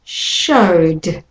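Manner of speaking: Showed, O vowel into D; showed with a final d. Shown as a demonstration. Teacher models showed for learners. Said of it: "And again".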